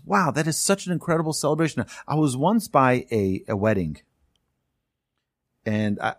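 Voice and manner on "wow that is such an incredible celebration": genuine delight. Retold or imitated. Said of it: "think to ourselves".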